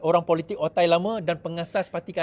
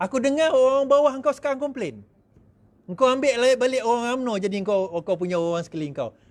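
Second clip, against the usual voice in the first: angry funder; 4 semitones higher than usual. Acted. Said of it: "Saya boleh marah dia tak?".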